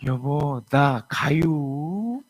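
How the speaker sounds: very slow drawn-out Chungcheong call; Chungcheong-accent wife dragging 가유. Acted. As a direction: Chungcheong accent, lazy and stretched. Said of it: "충청도 부부".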